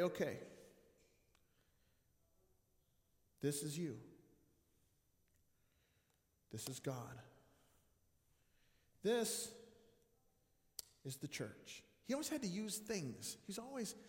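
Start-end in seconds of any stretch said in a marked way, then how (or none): 0.0-11.8 mystical hush. Retold or imitated. Mystical Mike explaining with objects.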